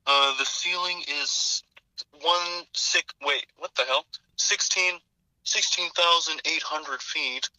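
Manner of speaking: slow, lightly voiced Nicolas Cage forecast; Nicolas Cage weather report. Weatherman slowly reading ceiling figures in a light Cage voice. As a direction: drag out the readings in a faint Cage impression.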